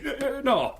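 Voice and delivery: high, stammering no; frightened refusal. Acted. Accomplice refusing the stranger's challenge, stammering and scared. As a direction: back away in fear.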